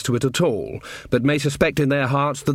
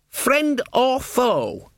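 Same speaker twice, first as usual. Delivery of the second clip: much higher, earnest lad's voice; eager young guard; 11 semitones higher, much slower than usual. Acted. Young guard greets his mum below, high and eager. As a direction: play the keen, simple boy soldier.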